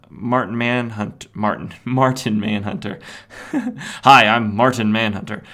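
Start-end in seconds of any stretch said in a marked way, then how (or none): 4.0-5.4 mock hero intro. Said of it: "No, Martian Manhunter".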